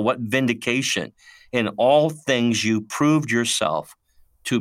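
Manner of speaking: measured, deliberate verse reading; scripture reading. Acted. Co-host reads Paul's verse on godly sorrow, measured scripture reading. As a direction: read it out phrase by phrase, slowing towards the end.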